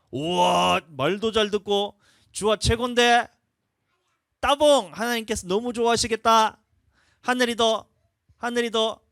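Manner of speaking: put-on high, loud, beaming praise for the kids; enthusiastic praising dad. Pastor acting as a dad praising his sons, excited and loud. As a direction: hype the little ones up like a proud father. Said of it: "아빠가 다시 칭찬해 줄까?".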